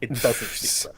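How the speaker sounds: unvoiced whispered aside. Real, not acted. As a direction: drop to a breathy whisper. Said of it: "whispered aside".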